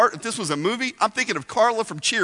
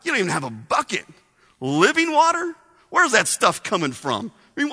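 sarcastic smart aleck. Retold or imitated. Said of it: "She had a little sarcasm. She was being a little smart aleck".

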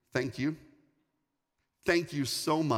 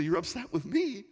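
taken aback; 5 semitones higher than usual. Retold or imitated. Retold surprise at being blamed.

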